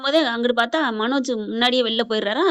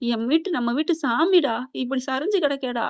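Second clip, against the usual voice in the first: imitated crying. Father-in-law laments over hospitalised daughter-in-law, imitating tears. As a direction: act out a grieving father-in-law lightly. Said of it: "அப்படின்னு அழுகுறாரு மீனாவை பார்த்து".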